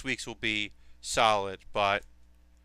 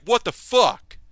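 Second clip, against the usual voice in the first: shocked reaction; 8 semitones higher, 6 dB louder, slower than usual. Retold or imitated. Viewer reacting to surprise swear.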